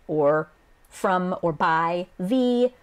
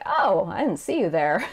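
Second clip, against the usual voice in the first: retorting burn. Acted. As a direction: brush them off with casual sass. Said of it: "has to retort with another burn".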